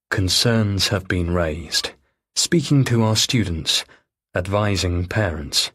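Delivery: slow, flat official reading; email read out. Acted. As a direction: read the school notice slowly.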